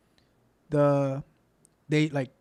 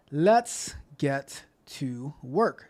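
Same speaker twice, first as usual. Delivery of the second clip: drawn-out hype; 6 dB louder, much slower than usual. Real, not acted. Host launches into the show.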